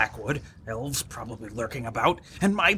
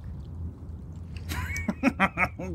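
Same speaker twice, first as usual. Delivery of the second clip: breathy wheezing laugh; 5 semitones higher, 7 dB quieter than usual. Acted. Laughing at beginner's luck.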